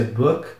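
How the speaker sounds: BOOK said as an English word; English pronunciation. Shown as a demonstration. Teacher shows students how it is pronounced, English pronunciation of BOOK. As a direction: demonstrate English BOOK with a short "oo". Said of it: "se pronuncia".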